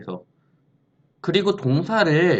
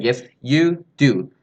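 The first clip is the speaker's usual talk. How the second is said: slow wrong answer; 4 dB louder, much slower than usual. Shown as a demonstration. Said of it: "이렇게 얘기하는 게 아니라".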